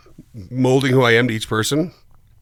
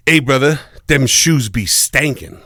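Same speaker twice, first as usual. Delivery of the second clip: lightly voiced dad, slowing down; dad's way of talking. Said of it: "And that's how he talks".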